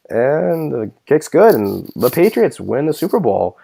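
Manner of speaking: imitating a bored announcer calling the winning kick; slow, flat, no excitement at all; flat announcer mimic. Mocking the announcer on the winning kick, slow and flat. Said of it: "acting like he's turning in his homework".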